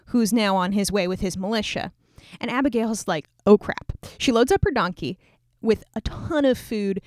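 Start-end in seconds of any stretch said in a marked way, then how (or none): 3.4-3.9 sudden louder "oh crap"; a jolt of comic panic; mock alarm. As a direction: realise the danger all at once. Abigail hears the bad news.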